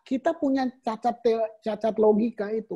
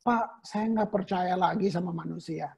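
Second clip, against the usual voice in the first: weary complaint; 5 semitones lower, 5 dB quieter than usual. Retold or imitated. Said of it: "kita ngomong gini".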